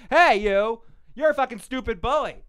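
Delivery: mock-angry shout at a sparring partner; mock arguing. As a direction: pick a fight in a play-acted bicker. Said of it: "You argue".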